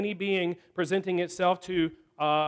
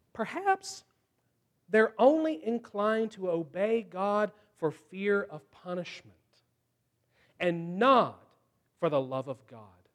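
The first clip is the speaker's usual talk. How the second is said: scheming serpent's thoughts. Retold or imitated. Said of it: "It's like he thinks".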